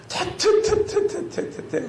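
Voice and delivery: rapid mock spitting noises; repeated exaggerated spitting. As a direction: act out spitting a foul mouthful. Acting out spitting bitter water.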